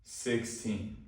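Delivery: SIXTEEN said calmly, unhurried, with a falling end; an unhurried, composed SIXTEEN that settles downward; calm and slow. Shown as a demonstration. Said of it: "If you say it like this".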